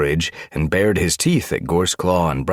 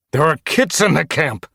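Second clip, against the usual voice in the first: high, loud, alarmed protest; desperate exclamation; 12 semitones higher, 6 dB louder than usual. A narrator's reading. Tiger Star fearing for his camp's kits, desperate exclamation. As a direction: cry out in frustration. Frustrated leader fears for kits.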